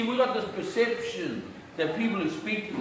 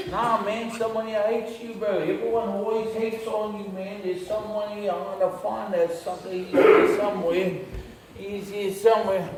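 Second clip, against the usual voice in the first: inner devil; 3 semitones higher than usual. Acted. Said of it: "and my devil goes".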